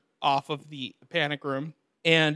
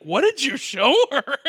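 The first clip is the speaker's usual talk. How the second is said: high, louder mock scolding; accusing wife; 9 semitones higher, 5 dB louder than usual. Imitating the wife confronting her husband, shrill-pitched accusation. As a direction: demand it as an upset wife.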